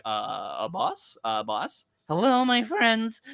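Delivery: hushed start, then a high, drawn-out greeting; mock ASMR. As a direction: imitate a creepy murmur into the boss's ear. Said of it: "I didn't sign up for A S M R".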